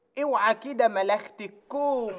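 attempted Upper Egyptian accent. Asked to say the line in Upper Egyptian dialect: attempted Upper Egyptian accent. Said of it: "اه بس بالصعيدي بقى".

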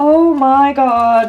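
high, loud, squealing excited scream. Seeing a pair of shoes they have wanted for ages, an excited scream.

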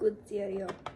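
thick, low, put-on Russian accent.

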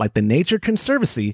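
ordinary talk

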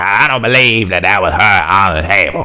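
slow, drawn-out put-on cartoon character voice. Retelling people doubting it was her on the table, in Uncle Ruckus voice. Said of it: "I'm trying to sound like my man from the Boondocks".

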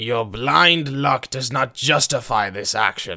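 booming, very loud voice. A narrator reads a male character answering Kaio, booming. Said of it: "he boomed".

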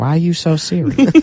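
high, shaky, trembling, quivering put-on voice. Repeating a quote another speaker started: quivering put-on voice. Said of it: "The shaking is the best part".

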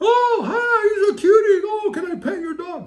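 put-on very high, slow, doting, cutesy baby talk coo. Mimicking people who approach the dog: imitating a high-pitched voice. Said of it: "when you start doing the high-pitched voice".

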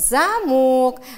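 замок, stress on the о, second syllable. Teaching children which sound gets more force: stress on second syllable of замок. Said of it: "Я произношу с большей силой звук «о», а он у нас находится во втором слоге".

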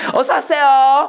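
very high-pitched voice. Imitating a woman at a restaurant who greeted diners: high-pitched voice. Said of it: "목소리 저 이만큼 높더라고요".

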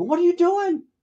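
mock very high-pitched shouted yell. Act out Sammo's reaction when you ran over to the hurt star before cut, retelling a yell. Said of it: "Sammo yelled at me".

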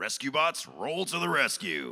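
shouting high and loud. Quoting own line from the show as the Autobot: Heatwave voice. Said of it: "I got to say".

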